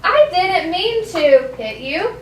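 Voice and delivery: slow, careful, sincere apology. Shown as a demonstration. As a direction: model saying sorry and meaning it, taking time. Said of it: "hear how my voice is changing".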